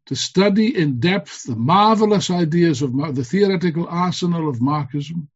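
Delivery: rousing political speech, building to slogans; rally the comrades with fervor; fiery revolutionary speech. Acted.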